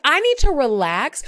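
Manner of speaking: high, loud incredulous throwback; mad retort. Retold or imitated. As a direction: fire it back, offended and mad. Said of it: "So I'm mad now".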